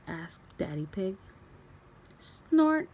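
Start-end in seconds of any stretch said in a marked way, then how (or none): 2.2-2.9 snort. A narrator's reading. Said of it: "snort Daddy".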